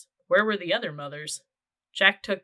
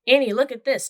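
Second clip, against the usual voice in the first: loud, high call across the hill; 7 semitones higher, 8 dB louder than usual. A narrator's reading. Boy calling his sister to see a find. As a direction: call to her from afar. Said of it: "Jack called".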